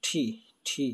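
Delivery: letter T with strong aspiration; crisp aspirated T, said twice. Shown as a demonstration. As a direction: say T as thi, with a puff. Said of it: "আমরা টি রে কি বলবো".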